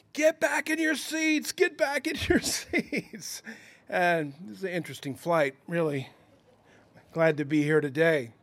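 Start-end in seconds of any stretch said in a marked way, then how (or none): 0.2-3.5 mock high-pitched yelling, repeated over and over. Retelling a bumpy flight, imitating a stewardess yelling at passengers. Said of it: "the stewardess is yelling".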